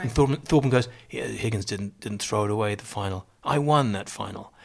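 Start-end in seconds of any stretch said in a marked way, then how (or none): 1.1-4.5 quiet correction. Retold or imitated. Quoting Thorburn's understated correction.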